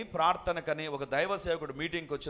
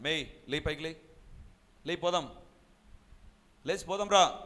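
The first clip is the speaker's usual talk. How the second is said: retold shouting. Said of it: "గట్టి గట్టిగా అరుస్తున్నారు".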